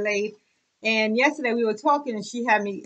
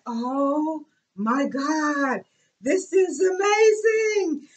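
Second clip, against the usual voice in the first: drawn-out gasp of admiration building higher; acted-out swooning amazement; retold awe; 4 semitones higher, much slower than usual. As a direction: stretch it slowly into an amazed cry. Retelling reaction on seeing bag.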